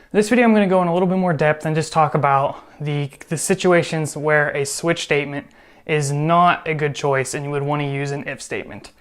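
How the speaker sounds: talking while out of breath; slightly out of breath, fast. Real, not acted. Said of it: "I'm out of breath".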